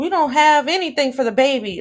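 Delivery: high loud yell. Speaker quotes what she is yelling about the baby, imitating her yelling. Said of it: "she's yelling".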